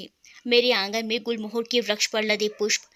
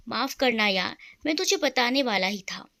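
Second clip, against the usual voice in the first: unvoiced, apologetic whisper; a guilty friend's hushed sorry; sad whispered apology. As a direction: whisper the sorry like you're ashamed. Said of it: "वो इतना कहकर उदास हो गया".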